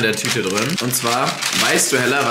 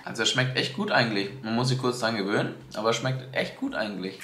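quieter, copying her friend's words; mimicking her friend; 5 dB quieter than usual. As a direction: echo her answer back, softer. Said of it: "Hast du gerade genau das gesagt, was ich gesagt habe?".

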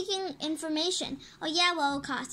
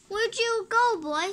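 calling out; 4 semitones higher, slower than usual. Real, not acted. Calling for a lost dog.

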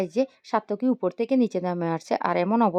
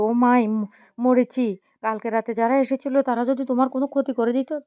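alarmed cry; 4 semitones higher, 5 dB louder than usual. Acted. Moyna alarmed exclamation.

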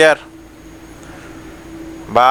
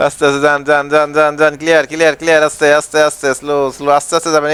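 a lightly voiced bus helper, a touch lower, chanting directions; bus helper calling; 3 semitones lower than usual. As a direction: guide the bus in like a helper on the footboard. Plays bus helper guiding driver.

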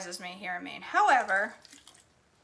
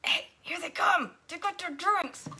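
excited announcement; 8 semitones higher than usual. Retold or imitated. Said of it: "and I said".

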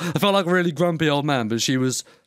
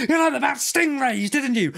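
much higher, carrying mother's quiz; loud sing-song mum; 10 semitones higher than usual. Retold or imitated. Mocking the loud mum in the chip shop, high sing-song. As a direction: call it out high like a showy mum. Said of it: "all she does is shout".

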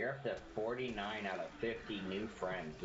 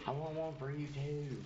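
bad Southern accent; 9 semitones higher than usual. Real, not acted. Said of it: "talking with a really bad Southern accent".

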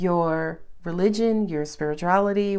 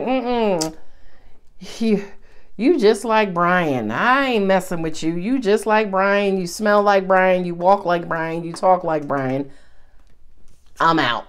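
fed-up dismissal; 2 semitones lower than usual. Retold or imitated. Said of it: "you're like".

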